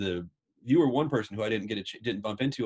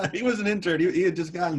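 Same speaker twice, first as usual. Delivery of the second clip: laughing while talking; 8 semitones higher, 5 dB louder than usual. Real, not acted. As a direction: talk high through lingering laughter. Laughing after the punchline.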